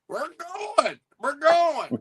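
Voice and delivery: high excited mimicry of friend; eager mimic. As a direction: chirp it like an eager kid. Mimicking eager friend ready early.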